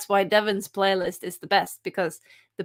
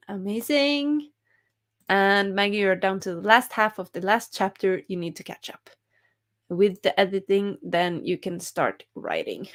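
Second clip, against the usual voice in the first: usual speaking voice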